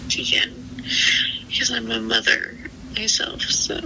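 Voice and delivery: crying. Real, not acted. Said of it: "I'm crying 'cause it's a lot".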